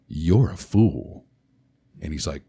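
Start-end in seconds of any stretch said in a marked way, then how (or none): 0.1-1.3 solemn knight. Retold or imitated. Costumed knight rebukes Darren.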